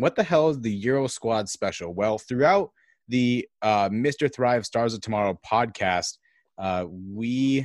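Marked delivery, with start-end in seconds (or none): none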